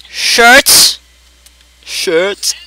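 high squeaky rising question; high-pitched questioning yelp; mock disbelief. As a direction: squeak it upward, incredulous.

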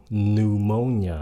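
PNEUMONIA slowly, starting on N; silent P. Shown as a demonstration. Teacher repeats, slow PNEUMONIA with silent P. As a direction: say PNEUMONIA as "noo-MO-nia". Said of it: "âm P câm luôn".

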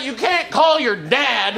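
mock indignation, words drawn out; upset partner. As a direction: imitate a wife's slow, upset objection. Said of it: "And she got upset".

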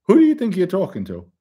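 high, loud indignant demand; imitating an outraged boss; retold angry challenge. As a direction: act out pulling rank in anger. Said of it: "Vinny turned beet red".

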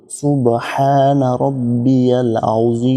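আযীম with a round, full zoa sound, unhurried. Shown as a demonstration. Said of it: "জোয়ার উচ্চারণটা আনতে হবে একটু গোল করে". (আযীম-এ জোয়া গোল করে)

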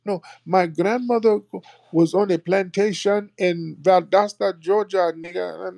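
high put-on voice, overselling the story; mock pretender. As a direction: parody a faker's claim. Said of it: "They'll try to do some research".

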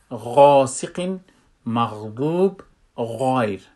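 "غاسق", "مغضوب", "غایر" with a heavy, rounded gh; full-mouthed ghain. Shown as a demonstration. Teacher giving istila examples, full ghain in "غاسق", "غایر". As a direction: fill the mouth on each gh of "مغضوب". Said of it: "پر است یا".

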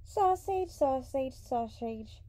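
taunting shout that starts high and loud. A narrator's reading. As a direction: shout the word in a descending series. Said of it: "she shouted".

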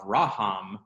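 Raham with the accent on "ra", RA-ham; stress on the resh. Shown as a demonstration. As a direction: punch the first syllable of Raham. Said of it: "if the resh had the accent".

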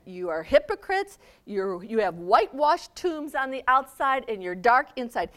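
loud rebuke; yelling Jesus. Acted. Jesus yelling at the scribes, loud. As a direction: shout the accusation. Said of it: "he starts yelling at them".

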